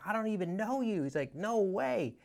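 high-pitched mock disbelief; incredulous Ken. Ken to the cold caller at eleven, high incredulous voice. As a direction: play him as a man who thinks the caller's lost it.

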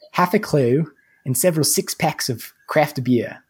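a light put-on Australian accent, reading a review; lightly voiced Aussie reading aloud; mock Australian accent. Co-host reads a listener review for friends in a light Australian accent. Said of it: "you have to do it now".

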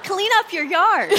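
high, loud, laughing punchline; laughing jab. Real, not acted. Co-host teasing the yard-sale woman, high and laughing. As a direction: toss it out through laughter.

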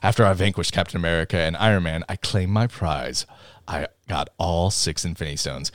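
boastful Loki. Retold or imitated. Retelling the show to co-hosts, a hint of a boastful Loki. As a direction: brag softly as a smug Loki. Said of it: "boastful Loki".

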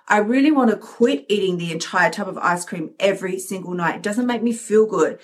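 a hint of a calm, sensible inner voice; lightly voiced gentle inner voice, steady and kind; calm loving voice. The sensible inner voice answering the craving, in a calm, loving tone. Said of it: "the calm, sensible, loving voice goes".

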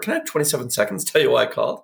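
quick, light and playful; fast, breezy request for a few seconds; playful ask. Shown as a demonstration. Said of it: "the voice you need for".

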